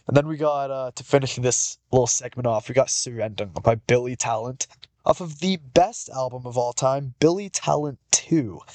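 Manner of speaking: nasal, stuffed-up voice from allergies; nasally voice. Real, not acted. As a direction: talk with a blocked, nasal nose. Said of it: "sorry about the nasally voice today".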